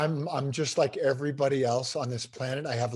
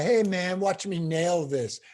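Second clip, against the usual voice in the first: mock-cocky swagger, a little slow on the end; lightly hammed-up cocky boast; 3 semitones higher than usual. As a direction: imitate a smug speaker bragging. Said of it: "They were, like, cocky".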